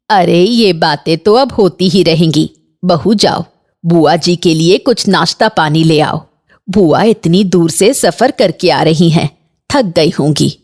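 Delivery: lightly voiced low mother-in-law. Mother-in-law sends bahu for snacks, lightly voiced low.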